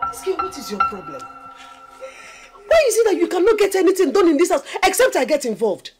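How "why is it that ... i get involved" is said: high, loud maternal tirade; furious shouting. Acted. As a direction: scold at full volume, exasperated. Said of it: "sorry, I will not shout again".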